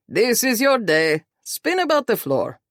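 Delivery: high, exuberant urging; hearty boss. A narrator's reading. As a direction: wave the newlyweds on with gusto. Boss waves couple on to dance.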